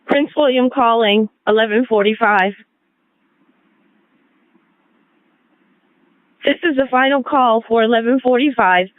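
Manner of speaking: solemn dispatcher over the radio; radio last call. Real, not acted.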